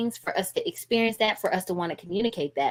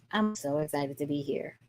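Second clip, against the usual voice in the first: much lower and softer, no energy at all; flat unexcited; 5 semitones lower, 10 dB quieter than usual. Shown as a demonstration. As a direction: say "excited" sounding bored and deflated. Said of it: "your body language is not telling us that you are excited".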